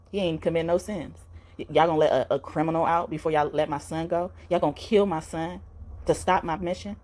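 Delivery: lightly voiced God, dismayed at his people; a touch of reproach, speaking as a father; appalled God. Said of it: "he's just so appalled at how people end up behaving".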